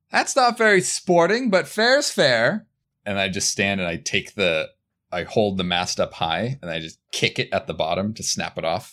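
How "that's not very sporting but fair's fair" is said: mock hollered yell, very high shrill pitch. Describing what they do after a roll, retelling a yell. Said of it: "I yell out like".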